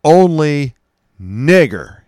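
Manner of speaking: "Only" hit high and loud, then "nigger" spat out loud; added emphasis. Acted. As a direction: lean hard on each word, "Only nigger". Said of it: "he said with added emphasis".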